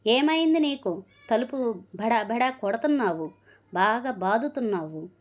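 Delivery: a woman yelling at her frail mother-in-law; yelling at the old woman. Acted. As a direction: bark it at her, harsh and loud. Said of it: "అంటూ అరిసింది".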